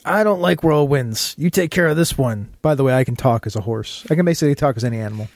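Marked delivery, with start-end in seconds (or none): 0.0-4.1 talking through a mouthful of peanut butter; words mushed by sticky peanut butter; mouth full of peanut butter. Pretend. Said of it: "a horse with peanut butter in his mouth".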